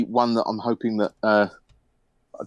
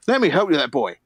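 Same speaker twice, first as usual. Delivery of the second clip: Scottish dwarf; much faster than usual. Acted. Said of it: "why are all dwarves Scottish".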